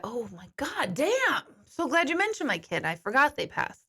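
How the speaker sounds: high, snide mock gratitude from a bereaved parent; sarcastic mock parent. Mocking a parent who supposedly forgot their child, sarcastic. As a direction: ham up the fake thank-you.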